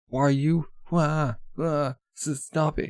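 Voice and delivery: lightly acted cries to stop; mock pleading. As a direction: play a brother yelping as his sister hits him. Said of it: "He's, like, getting wailed on".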